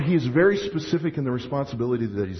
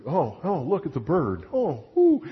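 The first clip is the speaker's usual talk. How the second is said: distracted child. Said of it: "and you're".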